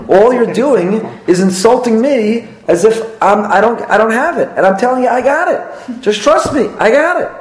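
building indignant insistence; exasperated. Acted. Acting an offended spouse.

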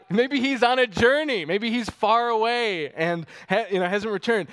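sneering mock of a silent god; mocking taunt. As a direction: taunt them like a trash-talking prophet. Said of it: "He mocks them".

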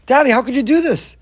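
put-on high, loud, desperate child's cry; crying out for daddy. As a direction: plead like a frightened child held down. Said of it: "He's yelling".

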